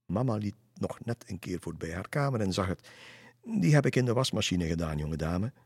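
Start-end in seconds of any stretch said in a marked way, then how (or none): 3.4-5.5 louder, scolding mother to her daughter; mother scolding her daughter about the slippers, stern. Acted. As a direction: tell her off firmly. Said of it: "Ze keek streng".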